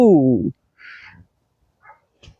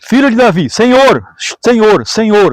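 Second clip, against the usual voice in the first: grito imitado; 2 semitones higher, 4 dB louder than usual. Retold or imitated. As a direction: call out to the Lord with raised voice. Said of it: "uma mulher cananeia originária daquela terra gritava". (clamor imitado, voz elevada)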